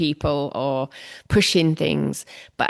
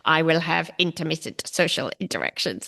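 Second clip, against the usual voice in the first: flat, even robot voice reading "intermittent social interactions"; each syllable of "intermittent" read evenly like a machine. Shown as a demonstration. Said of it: "I sound like a robot now".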